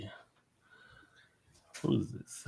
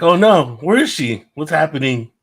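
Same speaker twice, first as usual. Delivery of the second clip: mock panic; 3 semitones higher, 9 dB louder than usual. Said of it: "We were like".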